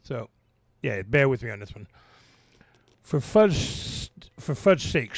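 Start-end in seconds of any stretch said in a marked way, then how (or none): 3.0-5.2 frustrated yell. Acted. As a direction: huff it out in mild frustration. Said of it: "Peppa yelled in frustration".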